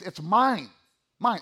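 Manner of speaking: "mine" stressed, then repeated alone. Shown as a demonstration. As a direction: press firmly on each "mine". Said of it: "places tremendous emphasis".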